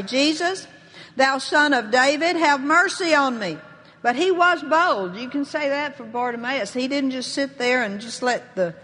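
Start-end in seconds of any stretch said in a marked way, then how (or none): 0.0-3.6 lightly acted cry for mercy. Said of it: "he began to cry out and say".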